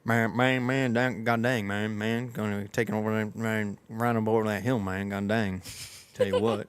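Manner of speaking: a lightly voiced fast mumbling ramble; Boomhauer impression. Podcaster trying Boomhauer's rambling talk, lightly voiced mumble. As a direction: mumble it all together like a rambling Texan. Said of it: "I can do Boomhauer".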